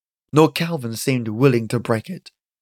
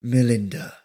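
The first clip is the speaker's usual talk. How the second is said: Calvin repeating it; 2 semitones lower than usual. Acted. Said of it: "he repeated".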